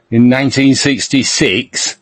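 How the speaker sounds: Middlesbrough-accented manager's team talk, lightly voiced; light take on a football manager's Middlesbrough speech; Brian Clough. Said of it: "I'm doing a Clough".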